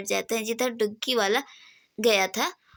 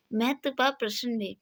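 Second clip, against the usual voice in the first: ordinary delivery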